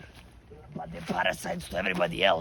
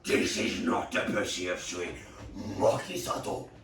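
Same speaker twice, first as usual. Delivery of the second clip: roaring much louder and higher, then a growl; furious pig; 4 semitones higher, 7 dB louder than usual. Acted. Pig discovering the fake, roaring much louder. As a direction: bellow the accusation.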